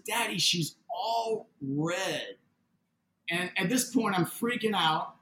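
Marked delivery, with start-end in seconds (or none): 0.1-2.4 very slow, drawn-out description; imitating young daughter. Daughter describes the lady to father, imitated slowly. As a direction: stretch the words out, retelling a child's awe. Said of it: "And she says".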